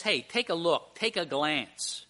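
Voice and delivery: offhand invitation to glance; casual. Shown as a demonstration. Preacher showing what the word does not mean, casual. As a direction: toss it out casually, easing off slowly. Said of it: "This isn't just".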